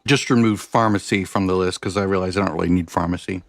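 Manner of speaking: talking around a mouthful of ice; words muffled by ice in mouth. Real, not acted. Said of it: "Sorry, mouthful of ice".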